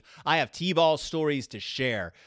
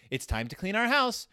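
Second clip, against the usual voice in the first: higher, lightly voiced cartoon cub; a hint of a kid bear character; Brother Bear voice; 6 semitones higher than usual. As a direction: imitate the narrator's eager Brother Bear. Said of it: "he does this voice for Brother Bear".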